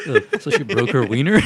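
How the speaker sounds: laughing disbelieving question. Real, not acted.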